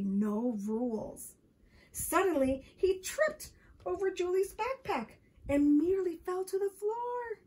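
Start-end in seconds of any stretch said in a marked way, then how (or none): 1.9-7.4 raised, suspenseful storytelling pitch; dramatic narration. A narrator's reading. Narrator tells children Michael nearly fell, dramatic narration. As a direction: build alarm as the stumble happens.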